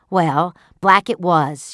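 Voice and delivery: wife eagerly confirming; mild cry. Acted. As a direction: blurt it out happily. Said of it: "she cried".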